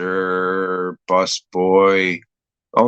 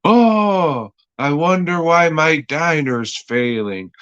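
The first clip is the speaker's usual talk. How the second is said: mock whine; 6 semitones higher than usual. Voicing Christopher Reeve's character.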